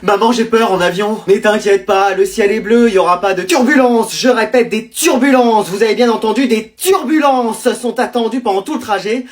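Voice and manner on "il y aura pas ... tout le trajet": pilot announcement. Acted.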